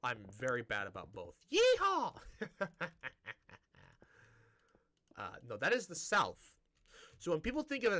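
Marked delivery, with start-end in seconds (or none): 1.5-2.1 loud, high Southern whoop; mock cowboy yeehaw. Joking about American accents with a sudden high, loud whoop. 2.2-3.6 real laugh. Real, not acted. Speaker amused by own fake cowboy yell, high trailing laugh.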